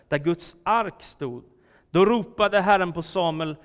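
animated, emphatic Bible reading; scripture reading. A narrator's reading. Preacher reads young Samuel's night calling to the congregation, animated scripture reading. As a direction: read the story out clearly with dramatic pauses.

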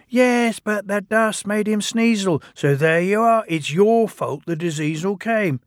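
high engine voice blaming; accusing twin. Acted. Ben blaming Bill, high and smug. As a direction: pin the blame on your brother. Twins quarrelling.

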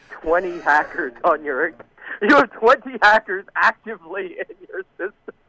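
high, pressing mock scammer voice; alarmist scammer. Caller imitating the scammer scaring his mom, mock alarm. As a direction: imitate a scammer raising the alarm, pitch climbing.

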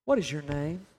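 low-pitched question after a long pause; quiet, grave question set low; measured, low question. Acted. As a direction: ask it low and deliberately. Jesus's question, staged twice with long pauses.

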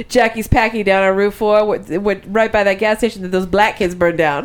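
put-on skit-style Boston housewife accent. Quoting the Boston Real Housewives skit, Boston accent. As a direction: give directions like a Boston housewife. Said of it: "Boston Real Housewives, skit that they do".

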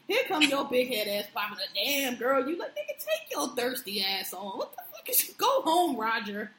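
high, loud mock yell telling Roger to go home. Host heckling Chris over Instagram, a loud high mock yell. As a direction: heckle him like a fed-up fan.

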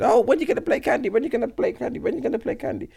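lightly voiced old person, nagging; a hint of an elderly guest pestering; old people voice. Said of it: "Man put on the old people voice".

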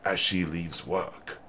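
documentary narrator voice reading pleas; calm nature-show narrator; David Attenborough voice. Acted. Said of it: "Google Translate's David Attenborough voice modulator".

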